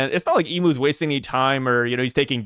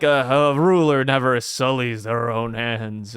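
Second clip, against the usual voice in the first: pompous ruler quote; 5 semitones lower, slower than usual. Retold or imitated. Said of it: "Yeah, like".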